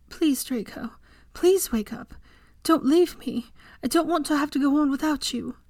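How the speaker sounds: high, pleading sob-tinged plea; begging. A narrator's reading. Hermione begs unconscious Draco to wake, pleading high. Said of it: "she begged".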